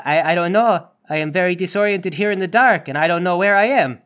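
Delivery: put-on disoriented suspect in Space Mexico accent; lightly put-on Space Mexico accent, confused. Netted suspect answering police in the dark, Space Mexico accent. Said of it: "what kind of accent is this".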